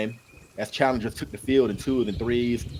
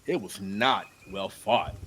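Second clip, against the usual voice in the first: complaining; 4 semitones lower, 5 dB quieter, slower than usual. Acted. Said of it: "Ed complained".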